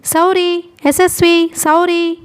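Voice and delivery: high calls traded back and forth; calling out. A narrator's reading. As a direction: call the names high, searching. Two lost people calling each other.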